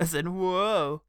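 whoa said slow and deadpan; very dry. Shown as a demonstration. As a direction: drag out whoa with no excitement. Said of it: "But spelt really, really dryly".

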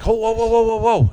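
rapid string of acted whoas; halting someone. Stage hand halts the running actor, alarmed. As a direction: stop him in his tracks.

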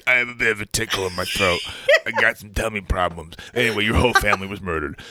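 fast, offhand interruption of grave news; hammed-up casual excuse; mock throat tickle. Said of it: "just getting a gravelly voice".

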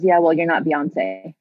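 slow, deliberate imitated dismissal; withering put-down. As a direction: let the scout's verdict land slowly. Acts scout's withering put-down.

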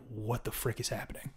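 retold confusion, dropped very soft; baffled aside. Storyteller recalling searing pain in his back, hushed bafflement. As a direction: quote your confused self under your voice.

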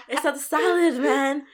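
insist, fed up but amused; exasperated protest. Retold or imitated. Arguing with friends who blame salad, exasperated protest. Retold argument about the salad.

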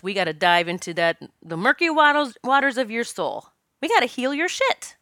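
God's voice, lightly played, pitch climbing toward the end; voicing God. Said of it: "this is how God, angels, my higher self".

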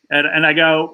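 ordinary talk, nothing marked

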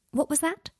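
high-pitched, gentle question; kindly. A narrator's reading. Hermione coaxing shy Scorpius to repeat himself, kindly. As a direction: ask kindly, pitch lifted. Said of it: "asked Hermione kindly".

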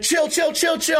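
high-pitched, repeated plea to chill; urgent calming. Retold or imitated. Friend runs out to stop the fight, urgently calming. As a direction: imitate a friend breaking up a fight.

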